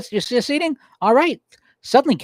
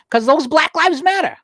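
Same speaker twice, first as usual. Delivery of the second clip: "those" lifted high, "Black Lives Matter" falling after it; stress on those; 11 semitones higher than usual. Real, not acted. Defending a point to viewers, stressing "those". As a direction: lean on "those" before the slogan. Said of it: "this is gonna sound silly coming from me".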